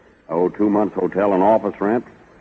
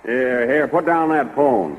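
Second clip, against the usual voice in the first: sharp, higher scolding call; 6 semitones higher, slower than usual. Acted. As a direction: stop her mid-call with a raised, scolding voice. Boss catches secretary phoning lawyer.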